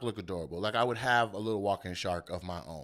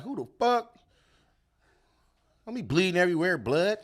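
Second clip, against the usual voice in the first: high frantic cries, raised voice; panicked yelling; 6 semitones higher, 4 dB louder than usual. Retold or imitated. Bitten victim crying out, frantic yell. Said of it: "He like".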